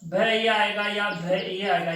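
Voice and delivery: slow, deliberate contrast. Shown as a demonstration. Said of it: "confusion होता है".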